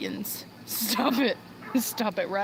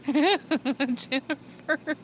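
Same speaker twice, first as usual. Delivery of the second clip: laughing; 4 semitones higher, much slower than usual. Real, not acted. Drawn-out teasing repeat of name.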